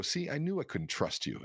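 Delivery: retelling how he protested at the broker's rate; indignant outburst. Retold or imitated. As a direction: play the betrayed rookie, voice jumping up. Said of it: "I'm just mad at him".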